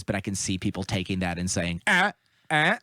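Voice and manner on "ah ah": high, mocking "ah, ah" noises; high-pitched parody of an objector; mock objecting "ah, ah". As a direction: imitate a knee-jerk objection noise. Imitating people's alarmed reaction.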